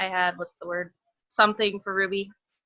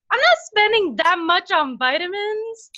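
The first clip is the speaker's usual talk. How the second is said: mock stubborn self; 9 semitones higher, 3 dB louder than usual. Quoting her past self, mock refusal.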